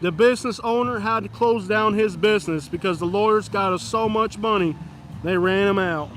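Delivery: lightly voiced lawyer-ad pitch, slowed on the story; John Morgan ad. Mocking the Morgan and Morgan ads to chat, lawyer-ad spoof.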